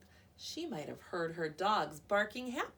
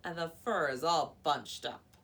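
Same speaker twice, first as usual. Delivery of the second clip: huffy complaint; 9 dB louder than usual. A narrator's reading. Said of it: "she huffed".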